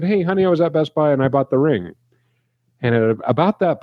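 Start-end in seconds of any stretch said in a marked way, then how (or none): 0.0-1.9 cheerful announcement. Retold or imitated. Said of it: "I said".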